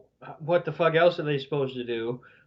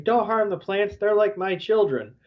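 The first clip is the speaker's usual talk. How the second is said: mildly upset, higher-pitched pleading; 5 semitones higher than usual. Retold or imitated. Podcaster retells Florinda protecting her plants, upset. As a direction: voice a worried plea, raised in pitch. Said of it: "you know, upset".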